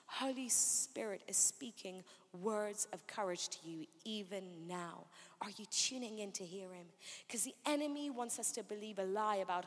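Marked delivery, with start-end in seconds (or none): 0.1-6.9 softer, lower, unhurried preaching; gentle reassurance. Real, not acted. Preacher asking the listeners to tune in, gently reassuring. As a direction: drop low and soft to reassure.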